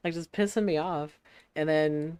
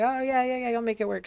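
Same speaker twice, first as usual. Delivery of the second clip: imitated coworker; 8 semitones higher than usual. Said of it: "And she's just like".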